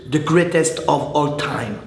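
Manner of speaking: slow, deliberate English accent with French colouring; attempted English accent. Shown as a demonstration. Vlogger showing viewers the English term, careful attempted English accent. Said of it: "Je le dis bien avec l'accent anglais".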